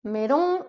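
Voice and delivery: melon, even syllables; Japanese melon. Shown as a demonstration. Teacher repeating the word for learners. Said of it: "Vas-y, répète après moi".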